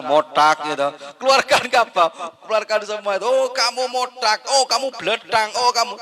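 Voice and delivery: high, loud hammed-up rant of animal insults; mock angry wife. Wife mockingly listing the insults she hurls at her husband, high and loud.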